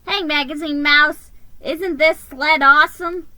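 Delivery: high, loud thrilled elf shriek. Acted. Elf shrieking to the mouse about the sled. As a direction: shriek with joy while flying. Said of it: "he shrieked".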